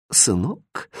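soft, sighed address to a son; sighing. A narrator's reading. Mother to her son about worn-out clothes, sighing. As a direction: say it softly on a sigh. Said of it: "вздыхая".

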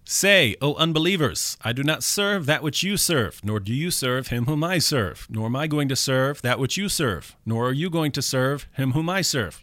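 solemn recitation, emphatic opening; moving recitation. Shown as a demonstration. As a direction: read it to move the listener. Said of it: "I'm gonna get ready to be moved again".

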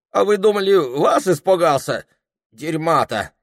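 a frightened peasant pretending he is not; scared peasant bluffing. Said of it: "пугливо дёргаясь лицом".

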